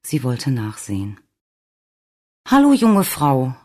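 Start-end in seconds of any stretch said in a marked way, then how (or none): 2.5-3.5 loud, raised, drawn-out call. A narrator's reading. Nurse to a crying woman in a car, calling out. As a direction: call out slowly to get her attention. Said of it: "rief sie".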